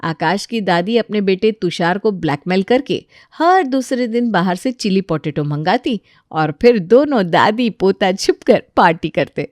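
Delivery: plain reading voice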